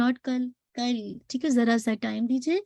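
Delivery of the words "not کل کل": کل held a moment, not clipped; slow contrast demo; held letter. Shown as a demonstration. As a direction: give کل a little time. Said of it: "توسط letter ہے".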